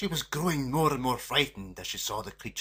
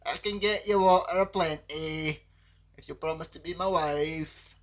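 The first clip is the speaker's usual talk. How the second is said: soft frog voice; 5 semitones higher, 3 dB louder than usual. A narrator's reading. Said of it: "said the paddock softly".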